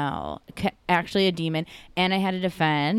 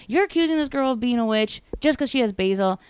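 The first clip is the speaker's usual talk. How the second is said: mock outrage; 6 semitones higher than usual. Retold outraged defense of neighbor.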